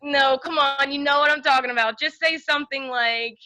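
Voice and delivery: pleading. Real, not acted. Coaxing friend to do voice.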